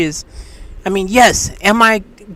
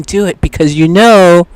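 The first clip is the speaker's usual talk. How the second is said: tempting voice; 5 dB louder than usual. Retold or imitated. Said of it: "Then another voice is saying".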